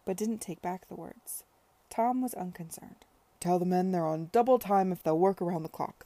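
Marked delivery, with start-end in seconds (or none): 3.4-6.1 loud, airy dismissal; breezy order. Acted. Tom to worried Stringer, loud breezy order. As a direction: wave the worry away heartily.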